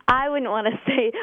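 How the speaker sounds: high, laughing dodge; laughing reluctance. Real, not acted. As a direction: laugh off the awkward question. Laughing off an awkward question.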